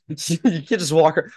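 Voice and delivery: mock Australian accent, laughing into it; comic Australian goth accent. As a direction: imitate a comedian doing an Australian goth. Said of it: "how they sound funny".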